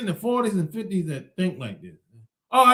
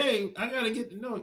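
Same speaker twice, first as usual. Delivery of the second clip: mocking, teasing young girl voice; 9 dB quieter than usual. Mocking a line that younger women say: imitating young girl talk. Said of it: "When they be like".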